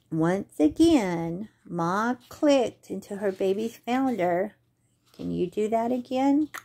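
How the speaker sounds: lively storybook read-aloud; reading to children. Acted. Librarian reading a possum story at story time, lively. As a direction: bring the story alive for little ones.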